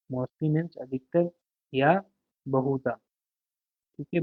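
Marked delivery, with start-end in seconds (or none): 0.1-2.9 slow dictation. Shown as a demonstration. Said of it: "teacher dictates meaning slowly".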